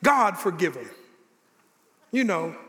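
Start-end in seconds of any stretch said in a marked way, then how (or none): 0.0-0.9 lower, breezy holier-than-thou brush-off; mock the too-saintly reply; light sanctimonious tone; mock pious. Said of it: "you say".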